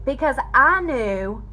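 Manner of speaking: fighting real tears while speaking; holding back tears. Real, not acted. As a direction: voice breaking high and unsteady, close to crying. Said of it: "I'm gonna try not to cry".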